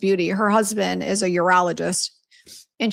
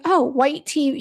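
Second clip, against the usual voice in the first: imitating husband reading; 5 semitones higher, slower than usual. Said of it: "He's like this".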